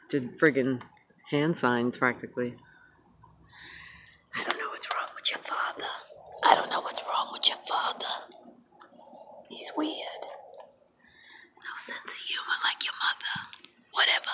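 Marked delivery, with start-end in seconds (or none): 4.3-5.9 put-on whispered old Jewish mother accent; hushed old Jewish accent, gossiping to the kids. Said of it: "That was my old Jewish accent". 6.4-8.0 put-on old Jewish accent complaining to the kids. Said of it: "That was my old Jewish accent". 9.5-14.3 put-on hushed old Jewish mother accent; old Jewish accent griping about the husband. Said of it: "That was my old Jewish accent".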